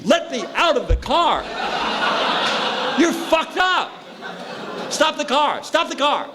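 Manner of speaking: very high, frantic yelling with laughs; panicked passenger. Retold or imitated. Injured passenger begs the drunk driver to stop, shrieking high. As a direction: shriek to be let out, voice cracking high.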